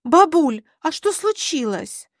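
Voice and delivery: put-on high-pitched confused girl; lightly acted puzzled teenager; bewildered teenage girl. A narrator's reading. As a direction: ask grandma in bewilderment. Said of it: "выглянула растерянная девушка лет семнадцати".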